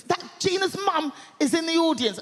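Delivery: Jonathan Ross voice. Retold or imitated. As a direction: play the chatty TV host. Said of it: "he goes".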